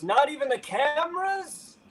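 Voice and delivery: high mock lady's voice; light mock of a press-conference lady; imitating the lady. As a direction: pitch it way up like the woman on the record. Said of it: "And then some lady goes".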